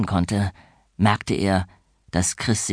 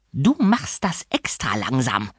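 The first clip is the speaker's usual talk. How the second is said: mock yell. A narrator's reading. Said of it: "schrie Fräulein Schimmel".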